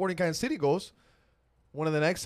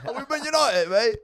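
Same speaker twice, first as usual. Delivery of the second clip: high, loud scoffing question; mocking question; 7 semitones higher, 6 dB louder than usual. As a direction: ham up the jab. Repeating the mocking quote.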